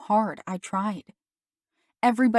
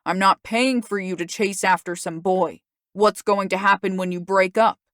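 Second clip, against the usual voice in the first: angry father; 6 dB louder than usual. Acted. Father angrily refuses.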